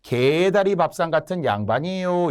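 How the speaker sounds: singsong mock proclamation of wordplay. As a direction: stretch each pun into a jeer at the nobles. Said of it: "이런 식으로 조롱을 한 거예요".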